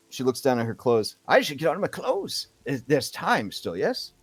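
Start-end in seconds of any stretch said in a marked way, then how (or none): 1.3-4.1 put-on eager old woman.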